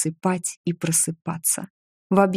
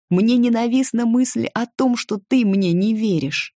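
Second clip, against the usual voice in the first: rising anger; 6 semitones higher than usual. A narrator's reading.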